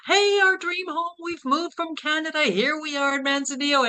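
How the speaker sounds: high, ironic mock excitement; sarcastic cheer. Arriving at the rotting dream home, ironic cheer. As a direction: sell the dream home with bitter irony.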